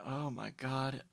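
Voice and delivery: normal talking voice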